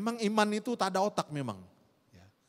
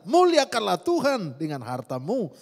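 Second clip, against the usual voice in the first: scripture reading; 3 semitones lower, 6 dB louder than usual. Acted. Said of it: "Alkitab berkata".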